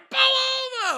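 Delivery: high screamed command, imitated; yelling cop. Cop ordering the flyer-covered driver to stop, screaming. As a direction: scream it like an enraged officer. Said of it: "he's t-, yelling, screaming at them".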